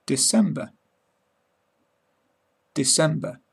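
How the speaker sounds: "January" bis "December" deutlich vorgesprochen, britische Aussprache, zum Nachsprechen; careful British pronunciation. Shown as a demonstration. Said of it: "I will say each one twice for you".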